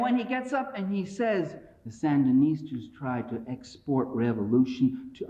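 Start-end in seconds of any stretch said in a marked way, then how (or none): 1.8-5.3 a hint of a president's speech-making voice; Lyndon Johnson impression. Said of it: "sounding more like Lyndon Johnson".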